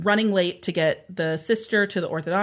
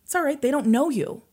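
higher-pitched retold reassurance; consoling; 7 semitones higher than usual. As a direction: imitate a dad soothing his daughter. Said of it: "he tried to console her and said".

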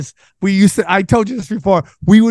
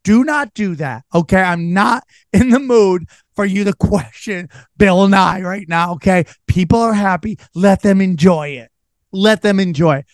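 mock mom scolding. Mom scolding Sam at the reunion, mild mock stern. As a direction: scold like a tired mom, lightly. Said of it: "She's like, Stop it".

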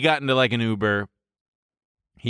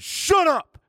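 retold shout. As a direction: snap it to silence the drunk guy. Confronting drunk guy in alley.

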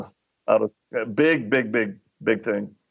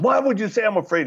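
mild mock yell, higher pitched; retold yell; 9 semitones higher, faster than usual. Tough guy challenging the man who taunted him, mild mock yell. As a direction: imitate an indignant yell without much volume. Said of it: "He starts yelling".

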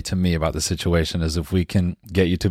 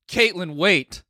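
much higher pleading call to Caitlyn; romantic plea; 10 semitones higher, much slower than usual. Shown as a demonstration. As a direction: call after her like a desperate lover.

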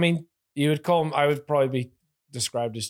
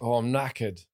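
British accent; 3 semitones lower, slower than usual. Shown as a demonstration. Showing friends how an English woman says it, British accent. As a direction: put on a British accent, drop the R in "knackered". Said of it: "that's a good British accent".

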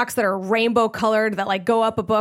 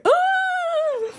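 stunned oh. Retold or imitated. Stunned at being trapped.

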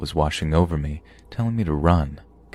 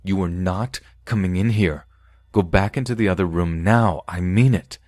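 commanding voice; 2 semitones higher than usual. Retold or imitated. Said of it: "with my most commanding voice".

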